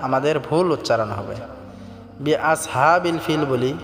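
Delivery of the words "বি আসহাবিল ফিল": আসহাবিল quick, with a thin s and plain h; mistaken thin sound. Shown as a demonstration. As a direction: say আসহাবিল without heavy s or throat pressure. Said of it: "বি আসহাবিল ফিল হবে না". (আসহাবিল-এ পাতলা স, হালকা হা)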